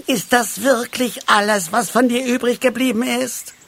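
high-pitched lamenting question; wailing. A narrator's reading. Halbschuh mourns his friend's remains, wailing. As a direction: keep up a plaintive, high wail. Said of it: "jammerte Halbschuh".

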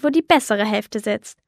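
leicht herablassend, die bessere Hälfte betont; herablassend grinsend. Acted. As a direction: ein Hauch von arrogantem Spott. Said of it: "sagte der Mann und grinste". (der Raucher spottet über die Kinder: leicht herablassend grinsend)

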